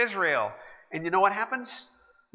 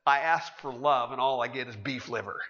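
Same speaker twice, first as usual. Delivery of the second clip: dejected sigh; 5 semitones lower than usual. Retold or imitated. Lucy sighing to Schroeder, a touch of dejected. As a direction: let the words droop with a sigh. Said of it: "dejected, sighs and says".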